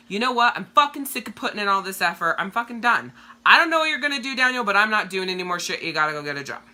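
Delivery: fed-up self-talk, sharp and fast; mock frustrated outburst; frustrated rant. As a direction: vent it like you're done with it all. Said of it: "I get pissed off and I'm frustrated".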